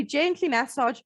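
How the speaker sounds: emphasis placed on "gently"; stress on gently. Real, not acted. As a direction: make "gently" stand out from the sentence. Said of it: "I'm really emphasizing the word gently".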